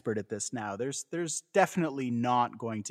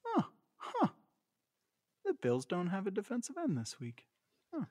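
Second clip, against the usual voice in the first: higher, soft mock dad grumble over the paper; mock dad muttering; 7 semitones higher, 7 dB quieter than usual. Dad reading sports news over newspaper, soft mock grumble. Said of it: "over the top of the newspaper".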